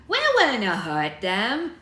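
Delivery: loud Scottish figurehead, stretched out; Scottish accent. A narrator's reading. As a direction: protest loudly and slowly in Scots. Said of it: "it's supposed to be Scottish".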